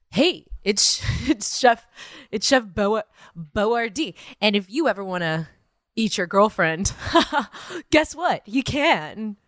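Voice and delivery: lightly put-on boyfriend voice, breaking into laughs; mimicking boyfriend. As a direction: do a half-hearted impression of him, giggling midway. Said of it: "you're like".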